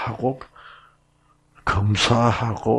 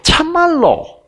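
high, slow sly Gyeongsang drawl of "참말로"; Gyeongsang dialect serpent; 3 dB louder, slower than usual. Acted. Serpent tempting the woman, sly Gyeongsang accent, much higher. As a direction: coax in a cunning Gyeongsang accent. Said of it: "경상도 사투리로 제가 각색을 할게요".

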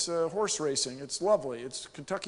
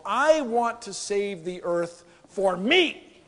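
laughing; 3 semitones higher, 5 dB louder, slower than usual. Real, not acted. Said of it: "laughing at own joke".

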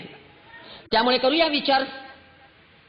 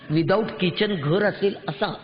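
mocking disbelief, drawn out; slow incredulous echo; 4 semitones lower, slower than usual. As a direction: repeat it slowly, lower, as if you can't believe it. She echoes it in disbelief.

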